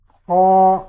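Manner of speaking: خا loud and heavy from the upper throat; heavy kha. Shown as a demonstration. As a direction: push خا out full and heavy. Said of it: "یہ حلق کے اوپر والے حصے سے ادا ہوتا ہے".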